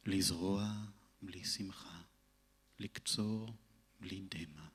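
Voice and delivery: solemn recitation, phrases set apart by pauses; poetry reading. Acted. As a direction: read it as verse, voice sinking at line ends. Reads own memorial poem in Hebrew. (lecture de poème, grave et posée)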